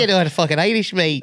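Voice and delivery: put-on laughing Irish-accent tease; mock Irish accent. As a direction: echo it in playful Irish. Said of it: "I'm doing Irish now".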